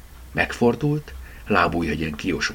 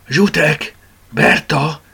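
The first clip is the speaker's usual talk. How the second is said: higher, louder call to get attention; 10 semitones higher, 5 dB louder, much slower than usual. A narrator's reading. Mama summoning the two plush toys, calling out. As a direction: call them over by name.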